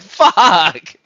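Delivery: sudden high shout of horror; shocked curse. Pretend. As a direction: scream it as if finding the bodies. Imagined finding allies all dead.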